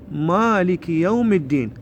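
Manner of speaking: slow, measured Quran recitation; careful teacher's recitation; recitation model. Shown as a demonstration. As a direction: draw out each long vowel.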